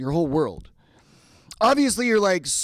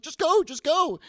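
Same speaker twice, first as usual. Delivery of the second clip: high-pitched, exasperated mock urging; urgent wife; 12 semitones higher, 4 dB louder than usual. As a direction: shoo him out in a high, tense voice. Wife urging him out of concert.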